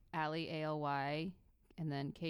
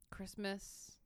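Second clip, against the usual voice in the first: whisper; 2 semitones higher, 9 dB quieter than usual. Real, not acted. Recalling Christmas plans.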